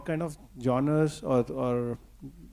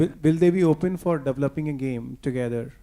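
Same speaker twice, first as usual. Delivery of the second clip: louder, emphatic repeat of a question; raised voice for clarity; 6 dB louder than usual. Real, not acted. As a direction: project it for a listener who missed it. Repeats question after not being understood.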